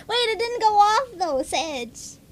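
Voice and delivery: high, loud burst of surprise; surprised. Real, not acted. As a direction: blurt it out loud and high, caught off guard. Surprised that stream alert failed.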